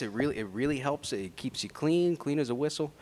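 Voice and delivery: smooth ad-read delivery; commercial voice. Real, not acted. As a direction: sell it like a TV commercial. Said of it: "Y'all hear his commercial voice".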